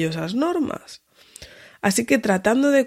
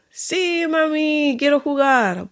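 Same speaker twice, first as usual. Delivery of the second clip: put-on high little-girl voice, eager; toddler voice; 7 semitones higher, slower than usual. Toddler answering mum about the game, high and eager. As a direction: sound like a two-year-old agreeing happily.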